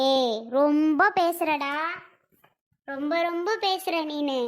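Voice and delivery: slow, drawn-out scolding; stern motherly telling-off; scolding warning. Acted. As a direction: warn him off, stretching the words. Mother scolding her son.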